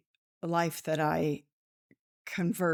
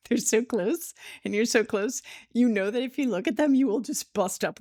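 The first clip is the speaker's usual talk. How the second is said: higher, giggly and quick; real laughing; 5 semitones higher, 3 dB louder than usual. Real, not acted. Speaker telling listeners about cracking up with a friend, laughing. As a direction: crack up while explaining.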